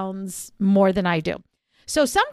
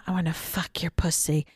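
mock guy voice; 7 semitones lower, 6 dB quieter than usual. Mocking a guy's dirty talk.

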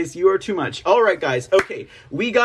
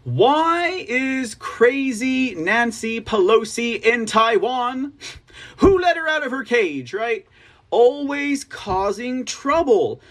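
slow, higher, mocking read of Trump's post; a slow, raised, half-mocking read of Trump's words; 5 semitones higher, slower than usual. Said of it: "and it goes this way".

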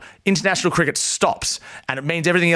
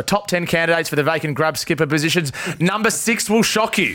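clickbait video narrator; 2 semitones higher than usual. Pretend. Reads his made-up clickbait headline.

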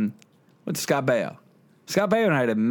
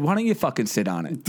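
laughing quote; 2 semitones higher than usual. Retold or imitated. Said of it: "I said".

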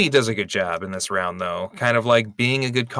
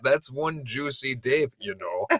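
put-on Minnesotan accent; 4 semitones higher than usual. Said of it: "deep Minnesotan accent".

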